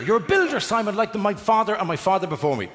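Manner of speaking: lifted high, swelling with mock pride; a hammed-up son of builders boasting of his line; mock proud tradesman. To the builder, proudly and high.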